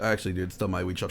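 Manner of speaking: quick, soft, meek correction; timid mumble. Retold or imitated. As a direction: mumble it fast and small. Shop clerk timidly corrects Bezos.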